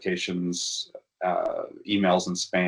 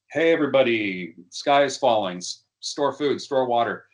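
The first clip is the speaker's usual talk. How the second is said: higher-pitched mock call to a crowd; half-hearted raised-voice warning; mock shouting; 4 semitones higher than usual. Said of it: "you're just shouting into the void".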